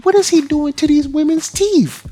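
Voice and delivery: shocked disbelief. Retold or imitated. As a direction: recoil at what you're seeing. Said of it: "I'm like".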